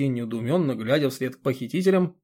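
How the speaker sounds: ordinary delivery, nothing marked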